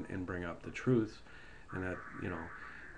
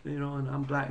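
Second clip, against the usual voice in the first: mock politician; 5 semitones higher than usual. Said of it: "he says".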